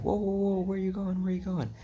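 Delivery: high, loud stop-there call; security guard. Retold or imitated. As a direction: halt an intruder at the door. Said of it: "And some security guard".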